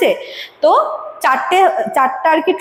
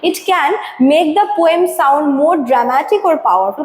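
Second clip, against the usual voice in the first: slow, deliberate textbook read-out; slow reading aloud; much slower than usual. Acted. Teacher reading the definition to students, slow and deliberate. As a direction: read the definition slowly for the class. Reads textbook line slowly.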